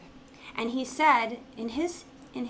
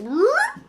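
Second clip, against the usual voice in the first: sudden high laugh; 9 dB louder than usual. Pretend. Brain rearing up.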